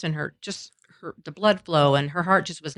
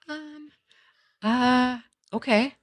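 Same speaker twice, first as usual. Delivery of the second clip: tentative, pitched-up agreement with pauses; retold hesitation; 8 semitones higher, much slower than usual. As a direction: hedge in a small high voice. Unsure reply to daughter's vow.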